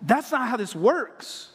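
lightly voiced teenage girl; mock teenage Mary. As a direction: plead it like a confused teen. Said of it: "She's saying".

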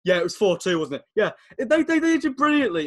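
put-on a befuddled old pundit bluffing; imitating Jack Charlton. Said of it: "and he goes".

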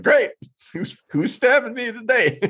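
a weary pet dreading the needle; resigned dog voice. Retold or imitated. Owner voicing her other dog at the vet, mock weary. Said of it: "she's like".

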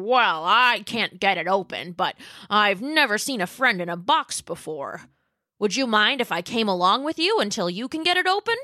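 Pat the dinosaur. Acted. Pat asks to come along.

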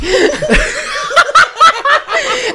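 high-pitched burst of laughter. Real, not acted. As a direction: crack up at your own joke. Cracks up at own threat. (gargalhada aguda)

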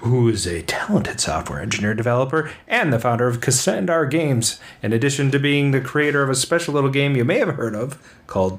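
upbeat radio host announcing the show; podcast host intro. Acted. Host retakes the guest intro.

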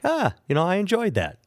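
put-on high, lightly wobbly old-timer voice; mock old person. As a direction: do the polite old folks in the crowd. Imitating elderly audience reaction.

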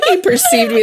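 high, excited repeat of the quote; hammed-up star-struck echo; mock fangirl squeal. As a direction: squeal it again like a fan.

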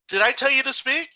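sharp high scolding question, stress on you; angry teacher. Retold or imitated. Teacher scolding a student who talked back, angry high snap. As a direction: demand silence from a mouthy kid.

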